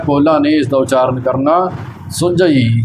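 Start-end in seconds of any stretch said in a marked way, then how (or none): 2.1-2.8 "ਸੁਝਈ" with a firmly pressed middle consonant; tight pronunciation. Shown as a demonstration. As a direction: lean hard into the middle of "ਸੁਝਈ". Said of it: "ਕੱਸ ਕੇ ਬੋਲਣਾ ਹੈ". ("ਸੁਝਈ" ਕੱਸ ਕੇ ਬੋਲੋ)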